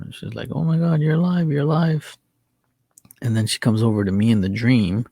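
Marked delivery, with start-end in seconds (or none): 0.5-2.2 retold frantic cry in a higher pitch; high, moderately frantic disbelief. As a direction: imitate a stunned, frantic sister, voice lifted high. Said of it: "my sister's frantic in the dream".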